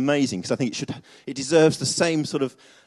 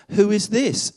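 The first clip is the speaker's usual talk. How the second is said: amazed question; 9 semitones higher, 6 dB louder, slower than usual. Acted. Disciples amazed.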